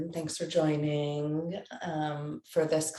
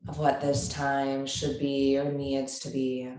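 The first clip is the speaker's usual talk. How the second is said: measured yoga-teacher guidance with long pauses; unhurried, evenly spoken meditation cueing; guided meditation. Real, not acted. Yoga teacher settling a class into seated breathing, guided meditation.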